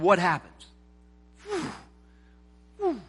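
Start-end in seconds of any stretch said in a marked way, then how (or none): 1.5-1.7 short high falling whoosh; falling whistle noise. Pretend. Preacher showing what happens after taking over, imitated falling whew. 2.8-3.0 short high falling whoosh; falling whistle noise. Pretend. Preacher showing what happens after taking over, imitated falling whew.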